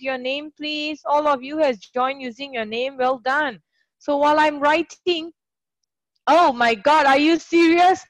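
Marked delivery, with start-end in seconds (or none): 6.3-8.0 sudden louder gasp of surprise; startled by a spider comment, a bit louder; real surprise. Real, not acted. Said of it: "I almost screamed".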